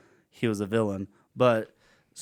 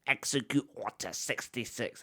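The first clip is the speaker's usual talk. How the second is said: movie quote; 9 dB quieter than usual. Retold or imitated. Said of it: "most quoted Star Wars movies".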